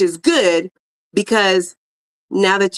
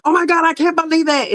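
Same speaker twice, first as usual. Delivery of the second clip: much higher, hammed-up gasp of amazement; mock disbelief; 9 semitones higher than usual. Imagined viewer stunned by a loan, in hammed-up disbelief. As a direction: play it up like a stunned winner.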